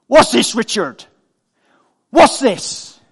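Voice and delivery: lightly voiced nosy neighbour demanding; a hint of the neighbour's accusing question; a hint of a suspicious neighbour. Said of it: "and he said".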